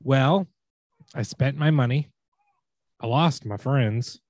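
spoken verse, pausing dramatically between lines; Shatner poetry slam. Acted. Host reads next lyric for players to name, halting Shatner-style recital. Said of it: "Shatner's Poetry Slam".

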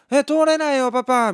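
put-on high, childish plea to her dad; little girl. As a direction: squeak it out like a stuck kid. Child protests to father. (改札で止められた女の子が父親に訴える、高い子供の声)

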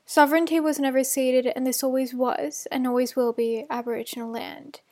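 measured formal statement; formal acknowledgement. Acted. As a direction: read it out as a solemn acknowledgement. Reads acknowledgement of country.

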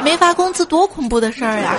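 said through a laugh; laughing complaint. Real, not acted. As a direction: laugh at the joke on yourself. Joke about unpaid wages.

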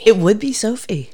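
hushed whisper. Real, not acted. S0 to S1 about Sophie, whispered. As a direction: whisper it like a secret.

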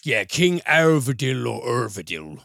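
put-on stab at a Scandinavian accent. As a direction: try the name in a Scandinavian accent. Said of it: "I love the attempt at a Swedish or, ... Scandinavian accent".

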